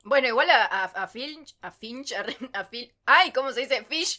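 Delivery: flustered and out of breath; hyperventilating. Real, not acted. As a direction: gasp through the stumbling words. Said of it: "Tranquilízate, respirá".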